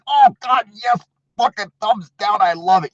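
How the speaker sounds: high, squealing mockery of a gleeful hater; mock troll voice. Streamer mocking a thumbs-down viewer in a high squeal. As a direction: pitch it way up and ham up the fake delight.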